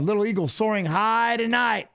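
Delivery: mock fight-broadcast flourish; Goldie. Retelling the commentator's mistaken nickname, mock announcer call. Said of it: "Goldie called me".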